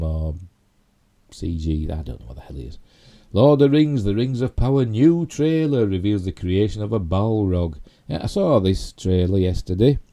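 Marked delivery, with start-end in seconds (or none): 3.3-7.8 higher, louder headline voice; headline read. Real, not acted. Host reads Shatner headline to viewers, headline read. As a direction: announce the news headline with a big lilt.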